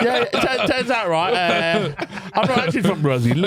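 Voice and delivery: jokey English lad confessing; English accent. Acted. Confessing he is not Brazilian, mock English accent. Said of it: "had to do an English accent".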